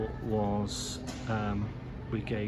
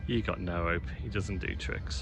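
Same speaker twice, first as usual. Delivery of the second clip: excited dog talk; 10 semitones higher than usual. Real, not acted. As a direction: coo over the dog like a delighted owner.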